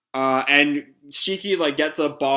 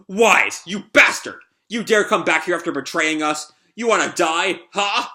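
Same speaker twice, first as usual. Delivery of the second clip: raised, indignant challenge; angry threat; 4 semitones higher than usual. Acted. Sabir to Wise after the betrayal, angry threat. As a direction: challenge the traitor in acted anger.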